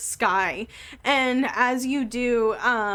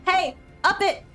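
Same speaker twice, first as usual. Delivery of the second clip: sharp call to the crew, a bit higher; calling out an order; 7 semitones higher, 3 dB louder than usual. Acted. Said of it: "and she goes".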